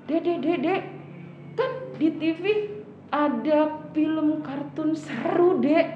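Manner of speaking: tempting big brother. Pretend. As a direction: lure a little sibling, stretching the exciting part. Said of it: "Terus abang bilang gini".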